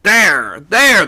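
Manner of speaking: two loud high cries; urgent shout. A narrator's reading. Skipper pointing out the figure to his mate, shouting.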